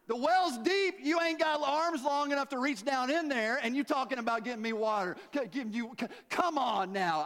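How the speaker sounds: high-pitched sassy objection, easing off; scoffing disbelief. Acted. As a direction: argue as if he's being ridiculous. Woman scoffs at offer of water.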